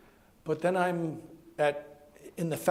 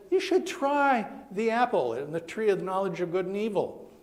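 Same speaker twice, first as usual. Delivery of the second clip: lightly voiced, higher coaxing snake; tempting snake; 5 semitones higher than usual. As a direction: coax Eve with a playful lift. Snake tempting Eve in story.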